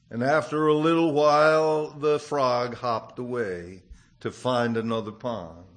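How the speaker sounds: put-on gentle storytelling voice, reading to children; story narration. A narrator's reading. Preacher tells a children's fable to the congregation, gentle storytelling.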